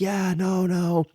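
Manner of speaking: high imitation waving off a protest; dismissive insistence. Store owner waving off a guest's protest, high insistent imitation. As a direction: lightly mimic a host brushing objections aside, high.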